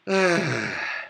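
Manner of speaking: long exasperated exhale; weary sigh. Real, not acted. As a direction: sigh heavily before answering. Reacting to chat comment.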